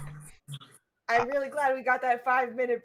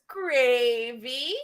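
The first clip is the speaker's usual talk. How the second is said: teasing. Acted. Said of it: "says in the teasing tiefling's voice".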